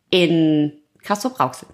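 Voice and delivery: leicht lallend nach Bier. Real, not acted. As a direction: die Konsonanten verschleifen. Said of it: "ich lalle". (leicht angetrunken lallend)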